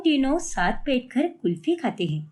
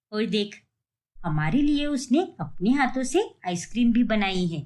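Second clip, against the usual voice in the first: put-on lower, older mother-in-law voice; mother-in-law asking her daughter-in-law about the market, in an older, lower voice; 6 semitones lower than usual. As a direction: speak as the puzzled elderly mother-in-law.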